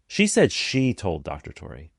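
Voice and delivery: second "she" lifted above the other words; stress on second SHE. Shown as a demonstration. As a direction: put the weight on the "she" before "told". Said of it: "depending on where I put the emphasis".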